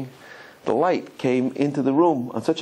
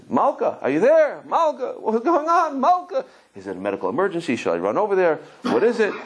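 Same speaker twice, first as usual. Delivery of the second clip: mock worried shouting; 4 semitones higher than usual. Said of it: "He's shouting on the phone".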